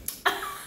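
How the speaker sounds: a short quiet laugh under the breath; quiet laugh after admitting she got heated; soft laugh. Real, not acted. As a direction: let a little laugh slip out. Laughing at her own anger.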